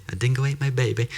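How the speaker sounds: hammed-up Australian catchphrase; Australian accent. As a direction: quote it in a joke Australian accent. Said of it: "That's what we always say".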